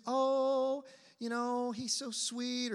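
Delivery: high, dreamy swooning over a sweetheart; gushing smitten woman. Acted. Preacher mimics a woman seeking the one, gushing.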